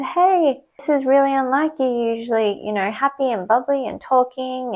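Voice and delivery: head nurse soothing the crying patient, in a bright high voice; imitating a cheery head nurse. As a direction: play the sing-song boss comforting a patient. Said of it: "and she said".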